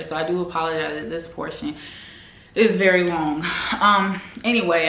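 slightly breathless talking; out of breath. Real, not acted. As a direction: talk a little winded. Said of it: "I don't know why I'm out of breath".

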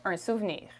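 un souvenir in French, the E after the V barely sounded, suvnir; French pronunciation. Shown as a demonstration. Teacher modelling un souvenir for learners in French. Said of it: "The E after the V is not very emphasized here".

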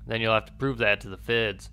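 put-on emphatic southern-accented captain. Captain challenges an accused officer, southern accent. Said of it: "I gave him a southern accent".

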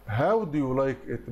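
slow, careful question read; slow model answer. Shown as a demonstration. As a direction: read the question slowly for students. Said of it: "teacher gives correct answer". (قراءة بطيئة للسؤال)

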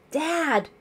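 high, loud exclamation of surprise; surprised cry. A narrator's reading. Daughter sees her father arrive, surprised cry. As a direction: cry out in astonishment. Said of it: "she cried, unable to hide her surprise".

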